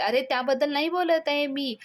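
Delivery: narrated irritation, moderately played; irritated. A narrator's reading. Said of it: "Avni चिडताना म्हणते". (चिडून उत्तर)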